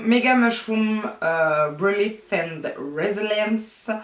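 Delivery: brand name read slowly in a put-on English accent. Shown as a demonstration. Reading the product name to viewers, in a mock English accent. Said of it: "Vous adorez mon accent anglais".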